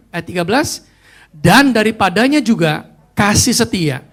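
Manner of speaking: slow, loud congregational reading; scripture read aloud. Real, not acted. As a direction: lead everyone through the verse, slowly and emphatically. Leads congregation reading the verse. (pembacaan ayat bersama, lantang dan lambat)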